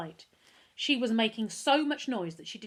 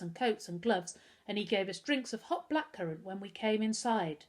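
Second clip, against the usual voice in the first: a touch of cool, composed calm; calm, even voice. Acted. Girl calmly lying to the mother, even and composed. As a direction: keep it level and unbothered. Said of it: "In a perfectly calm, even voice".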